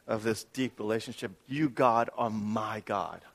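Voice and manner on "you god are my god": slower line ending, weight on "my"; stress on MY. Shown as a demonstration. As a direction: dwell on "my" as a confession of closeness. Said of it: "The emphasis is actually the word "my".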